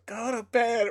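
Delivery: high-pitched imitation of mom calling out; mock yell. Mom calling from the bottom of the stairs, high mock yell. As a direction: mimic a far-off yell at ordinary volume. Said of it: "My mom yelled from the bottom of the stairs".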